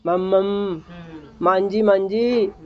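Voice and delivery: lightly imitated baby talk; a hint of a toddler's first words; baby babbling. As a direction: babble like a small child trying to speak. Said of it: "जैसे बच्चा बोलता है ना".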